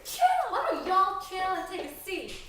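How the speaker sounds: loud high scolding; shouting. Acted. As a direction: yell to stop the fight. Breaking up the fight.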